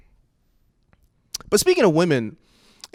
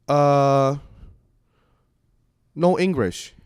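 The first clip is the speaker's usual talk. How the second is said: loud, halting mock Asian accent; put-on Asian accent; 2 semitones higher, 4 dB louder, much slower than usual. Dodging missionaries at the door, put-on Asian accent. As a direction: feign no English in an Asian accent. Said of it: "don't knock the Asian accent".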